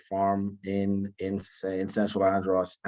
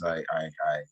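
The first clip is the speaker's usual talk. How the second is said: stuttering slightly on the repeated "I"; 5 semitones lower than usual. Real, not acted. Newly promoted Marine apologizing to the audience, slight stutter. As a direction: catch on the word, repeat it, then carry on. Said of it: "I stutter a bit".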